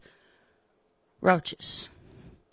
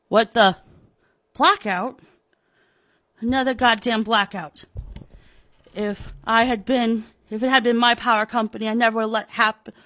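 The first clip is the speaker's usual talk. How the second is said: louder, fast grumbling rant; irritated outburst; 5 dB louder than usual. Acted. Pratt fuming alone at another blackout, irritated.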